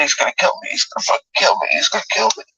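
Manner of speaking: hushed, fearful repeated words; frightened whisper. Retold or imitated. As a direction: whisper it, terrified of being killed. Retold terror during the attack.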